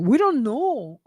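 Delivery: deliberate Latino accent, drawn out. Shown as a demonstration. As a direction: repeat it in a hammed-up Latino accent. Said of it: "Did you hear that?".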